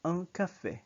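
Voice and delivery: ang café whispered, nasal and short; whispered demo. Shown as a demonstration. Teacher modeling un café for learners, whispered pronunciation. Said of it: "you say".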